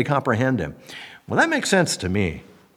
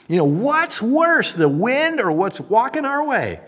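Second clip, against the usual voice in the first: panicked disciples; 10 semitones higher, 4 dB louder than usual. Pretend. Disciples in the storm, panicked frightened cry.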